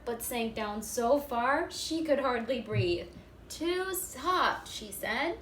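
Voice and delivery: put-on expressive read-aloud for young children; storybook reading. A narrator's reading. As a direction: read it like story time for a first-grade class. Reading picture book aloud.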